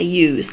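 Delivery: "youse" ending in a Z sound; Scouse pronunciation of "youse". Shown as a demonstration. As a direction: say "youse" as if spelt with a Z. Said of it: "like there's a Z on it".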